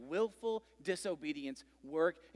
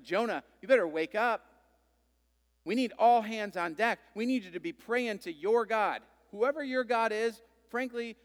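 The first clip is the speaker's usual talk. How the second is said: urgent captain; 3 semitones higher, 5 dB louder than usual. Retold or imitated. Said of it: "Captain goes down and is like".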